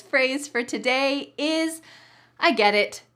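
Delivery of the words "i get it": I get it said firmly and loud; emphatic tone. Shown as a demonstration. Teacher presents the bonus phrase, emphatic. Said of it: "has to be said in this tone of voice".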